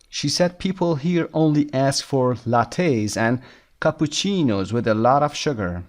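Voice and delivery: very slow, deliberate English read-aloud; measured dictation pace; slow lesson reading. Shown as a demonstration. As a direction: read it out slowly for language learners. Reads lesson text aloud.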